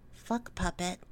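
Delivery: low, hushed trigger word; right in your ear. Acted. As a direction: breathe it close to the ear. Trigger phrase in hypnosis.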